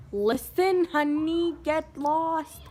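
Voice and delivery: high, put-on sugary dismissal; sassy brush-off. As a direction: brush the nurse off in a mock-sweet high voice. Acted sassy retort to night nurse.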